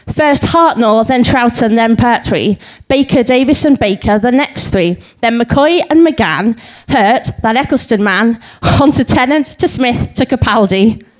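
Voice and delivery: lilting comic verse reading; light, rhythmic stage recital; limerick recital. Acted. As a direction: bounce through the limerick, landing the rhymes. Recites a limerick list of names.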